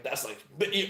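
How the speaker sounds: ordinary talk, nothing marked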